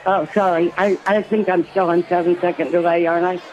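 tipsy. Real, not acted. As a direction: talk like you've had a few drinks. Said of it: "I'm a little tipsy".

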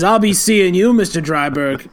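a lightly voiced menacing goodbye; tough cop farewell. Detective leaving Dan's house, lightly voiced cop. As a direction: tip your hat with a threat. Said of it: "he says".

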